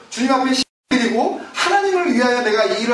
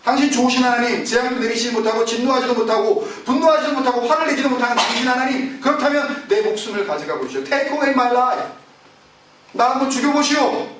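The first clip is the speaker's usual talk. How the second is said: defiant challenge; 2 semitones higher than usual. Acted. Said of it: "자기가 대항을 하는 겁니다".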